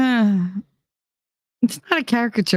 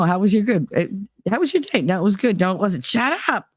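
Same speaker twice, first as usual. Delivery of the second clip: quick two-sided puppet squabble, jumping in pitch; mock bickering; 3 semitones higher than usual. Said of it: "constant fighting back and forth".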